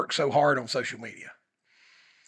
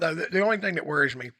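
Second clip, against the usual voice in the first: talking while chewing ice; crunching ice; 2 semitones higher than usual. Real, not acted. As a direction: crunch ice between words. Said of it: "can you hear me crunching ice?".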